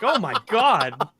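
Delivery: slow, stunned gasp of disbelief; drawn-out horrified oh my God; shocked oh my God. Retold or imitated. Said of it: "I'm like".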